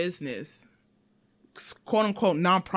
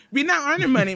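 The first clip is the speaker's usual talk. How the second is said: laughing protest, louder; 7 semitones higher, 5 dB louder, faster than usual. Real, not acted. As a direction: laugh through the words.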